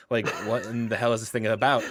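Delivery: half-laughing through an amused question. Real, not acted. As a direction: chuckle through the words in disbelief. Joking about weird Bible stories.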